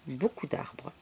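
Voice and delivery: whispered storybook aside. A narrator's reading. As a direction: trail off into a hushed whisper. Hushed detail in bedtime story.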